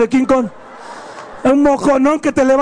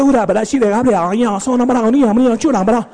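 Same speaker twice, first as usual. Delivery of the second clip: singsong fake Asian gibberish; mock devoted wife. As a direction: parody the submissive wife from the movie. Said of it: "toda abnegada le dice".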